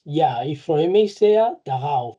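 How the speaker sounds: slow, careful German model answer; deliberate teacher pace; slow example. Shown as a demonstration. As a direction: spell it out slowly for the class. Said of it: "Pero para cortarlo".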